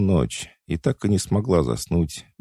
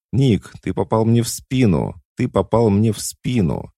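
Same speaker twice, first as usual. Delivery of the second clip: higher, louder narrated outcry; mild cry out; 6 semitones higher, 4 dB louder than usual. A narrator's reading. Falling woman cries to Nick after being shot, mild shout. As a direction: cry it out as if just hit, restrained. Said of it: "Падая, она закричала".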